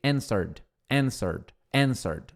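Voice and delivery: Answered said "énserd", ending in a soft d; Answered with a d sound at the end, not a t; pronunciation demo. Shown as a demonstration. Teacher drilling the final d for students, Answered ending in d. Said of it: "é som de D".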